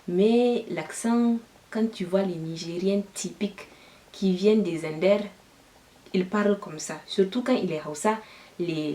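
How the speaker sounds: French spoken with a heavy Hausa accent; exaggerated Hausa accent. Shown as a demonstration. Demonstrating the accent of Zinder's Hausa students, exaggerated Hausa accent. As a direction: put on a pronounced Nigerien Hausa accent from Zinder. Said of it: "Est-ce que tu peux parler avec ton accent nigérien".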